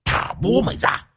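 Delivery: high, soft eerie ghost chant. A narrator's reading. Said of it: "Nó nhìn chừng chừng vào chị Liên". (giọng ma rên rỉ đòi nhà)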